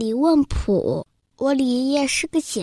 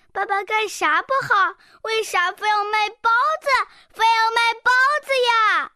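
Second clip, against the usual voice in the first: quietly hurt; 10 semitones higher than usual. Retold or imitated. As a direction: plead with mother, feeling wronged. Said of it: "我委屈地问妈妈".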